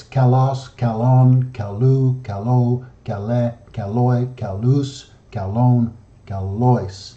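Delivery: kalos, kalon, kalu and the rest, each stressed on the final syllable; stress on last syllable. Shown as a demonstration. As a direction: recite kalos to kalois as a list, leaning on each last vowel. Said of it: "it's always on the last vowel".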